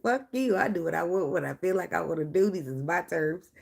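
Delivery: lightly voiced sassy cat; voicing the cat. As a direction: give the cat a stubborn diva attitude. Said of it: "She like".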